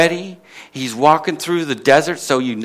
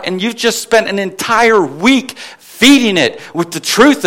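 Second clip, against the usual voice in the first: rising, louder preacher's build; impassioned preaching; 4 semitones higher, 4 dB louder than usual. Acted. Preacher to congregation, building fervent delivery. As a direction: preach it with mounting fervour to the congregation.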